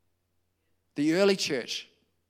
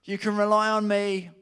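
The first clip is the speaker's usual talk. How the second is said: adamant; 5 semitones higher, 4 dB louder than usual. Retold or imitated. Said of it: "Peter's pretty adamant".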